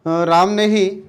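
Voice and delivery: ही in Ram ने ही lifted and held; teacher stressing the particle ही. Shown as a demonstration. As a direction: lean on ही. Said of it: "जोर देकर बात कर रहे हैं".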